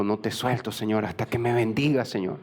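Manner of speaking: subdued plea, understated tears, dropping away on the last word; tearful plea. Acted. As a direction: plead humbly, only a hint of crying. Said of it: "estaba llorando". (súplica contenida, levemente llorosa)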